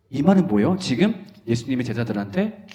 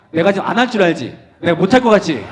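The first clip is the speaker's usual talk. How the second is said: mock challenge; 4 semitones higher, 5 dB louder, faster than usual.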